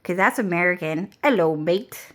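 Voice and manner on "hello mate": badly faked British greeting; attempted British accent. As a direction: have a half-hearted go at a British accent. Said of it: "how do they say hello?".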